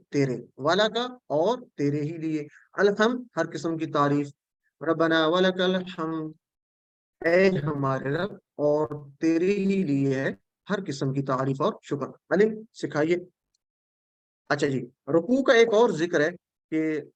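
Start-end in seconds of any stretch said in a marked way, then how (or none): 4.8-6.3 slow, devoted recitation of praise; heartfelt praise. Shown as a demonstration. Teacher reciting the prayer to students with slow heartfelt praise. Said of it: "تصور اور احساس کے ساتھ ہم اس کو پڑھیں گے". 7.2-12.1 slow, devoted recitation of praise; heartfelt praise. Shown as a demonstration. Teacher reciting the prayer to students with slow heartfelt praise. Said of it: "تصور اور احساس کے ساتھ ہم اس کو پڑھیں گے".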